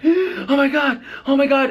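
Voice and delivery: gasp, then very high-pitched panicked cries; mock panic. Passengers as the plane dives, imitated high panic. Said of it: "everyone on the plane's like".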